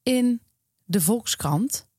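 reading a newspaper column to listeners, voicing both girls; lively storyteller read with light character voices; column read aloud. Podcast host reads a column aloud, lively storytelling read.

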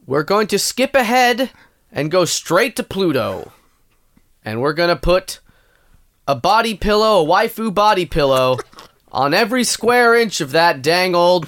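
lightly voiced tycoon, like a proper man; deliberate mock-visionary announcement, measured phrase by phrase; Elon Musk. Guest answering the host on space plans, mock-proper and emphatic. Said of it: "now it's just you speaking kind of like a, like a proper man".

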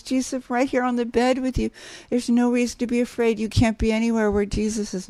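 put-on gently calm a frightened little girl at bedtime; soothing mother. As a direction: mom hushing her scared daughter in the dark, softly. Mom soothing scared child at bedtime.

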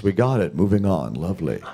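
lightly voiced unhurried director wrapping a take; mild Mike Nichols sign-off; Mike Nichols impression. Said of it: "It's my Mike Nichols impression".

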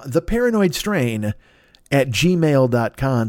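very slow, word by word. Shown as a demonstration. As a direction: dictate it slowly. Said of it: "write him a note at this address".

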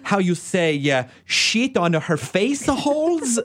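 sweet Italian director voice; Italian accent. Retold or imitated. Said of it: "say something horrible like".

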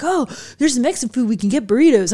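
lightly put-on Southern California dude accent. Journalists excited about burritos at the rest stop, Southern California dude accent. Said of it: "a Southern California dude accent".

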